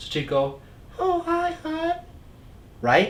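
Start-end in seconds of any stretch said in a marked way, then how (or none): 1.0-2.0 very high, feminine put-on voice. Retelling how someone born male greeted people, in a put-on female voice. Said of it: "would talk in a female voice".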